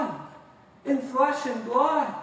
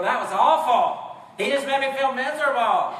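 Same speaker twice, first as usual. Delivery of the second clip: mock complaint; 2 semitones higher, 3 dB louder than usual. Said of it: "leave here today and go".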